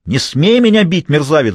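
high, loud outraged scream. Acted. Woman slapped by her lover screaming at him, outraged. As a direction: scream at him after the slap. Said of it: "закричала она".

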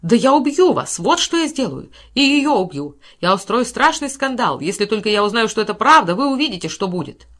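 cowardly braggart threatening his rival, melodramatic; melodramatic threat. Acted. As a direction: ham up the furious threats. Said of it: "мелодраматически воскликнул он".

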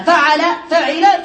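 فعل، فعل said slowly, vowel by vowel; slow pattern demo. Shown as a demonstration. Teacher slowly sounds out the verb patterns to students. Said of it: "له ثلاثة أوزان".

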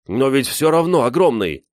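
put-on high, loud boyish insistence; insistent. A narrator's reading. Гриша insists the bear was huge, excited. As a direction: argue back eagerly. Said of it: "настаивал Гриша".

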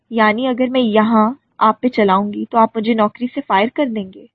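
plain reading voice

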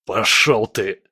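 strained, croaked defiance; hoarse croak. A narrator's reading. Trapped fighter struggles free, croaking defiantly. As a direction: croak it out while held fast. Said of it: "прохрипел Скала".

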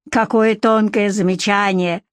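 understated scoff; snorting sarcasm. Acted. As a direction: scoff lightly at the remark. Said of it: "фыркнул Егор".

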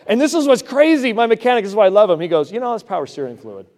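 loud, high, driving sermon voice; preaching at full force. Acted. Pastor preaching hard to his church about God's word, loud and driving.

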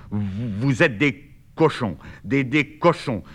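put-on angry boy tripping over the first words; slight stutter. Bernard, dragged from bed, insulting his siblings with a slight stutter. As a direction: stammer a little with indignation. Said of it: "il bégaye légèrement".

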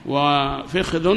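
وفخذ as "wa-fikhdhun"; short i after f, no vowel after kh in وفخذ; second dialect form. Shown as a demonstration. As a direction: say وفخذ slowly as fikh-dhun. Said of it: "ثلاث لغات".

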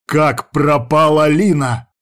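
slow, loud growl; father growling at his ex-wife; growled back. Acted. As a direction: drag out each word in rage. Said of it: "прорычал я в ответ".

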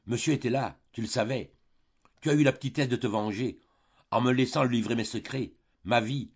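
a wronged countess spitting fury at her sister; trembling rage. Acted. The countess turns on Delphine, building to a furious outburst. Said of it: "pâle et tremblante de colère, de fureur, de rage".

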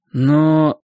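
high squeaky falsetto. Acted. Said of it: "запищал фальцетом".

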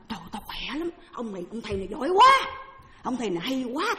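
mildly acted amazement, rising endings; impressed retold praise. Man praises the master after healing, acted amazement. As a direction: play a man marvelling at the master.

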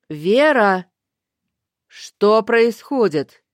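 loud worried call from afar. Acted. Лестер зовёт Веру из коридора, громко и тревожно. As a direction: shout her name into the dark.

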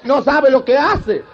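lightly acted nun's plea, slowing at the end; praying nun. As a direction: cry out to God like a mock nun. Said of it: "una de las monjas decía así". (monja suplicando, en broma)

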